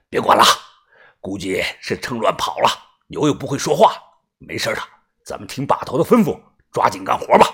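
low, quiet, unbothered voice; dismissive crew elder. Acted. Yu telling crew to get working, low and unbothered. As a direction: wave the worry away in a low murmur.

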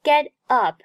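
"get up" run together; linked pronunciation. Shown as a demonstration. Teacher recaps Get up连读, "get up" linked. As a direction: carry the t of "get" into "up". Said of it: "Get up连读".

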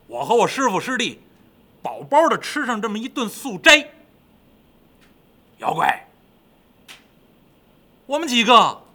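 lightly voiced greedy pig, brisk and lively; blithe, lively pig character; chatty Pig. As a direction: order a feast as a cheeky pig. Plays Pig chattering while tied up.

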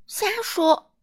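a high, brisk "nonsense"; retorting. A narrator's reading. Miss Sunshine retorts to the king, brisk. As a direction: brush him off briskly. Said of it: "阳光小姐反驳道".

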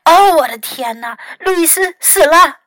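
loud exclamation climbing high; alarmed cry. A narrator's reading. Fox believes Louis has died, alarmed cry. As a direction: cry out in alarm, rising in pitch. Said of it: "福克斯叫了起来".

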